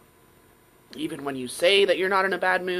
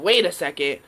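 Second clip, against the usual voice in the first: louder, with a lower cut-in; a deeper voice breaking in; 6 dB louder than usual. Retold or imitated. Her saboteur voice cutting in, louder. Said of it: "this lower, louder, deeper voice".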